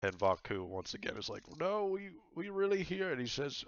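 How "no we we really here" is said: higher, doubting voice; a hint of an unsure companion; lightly voiced companion. Player character voiced.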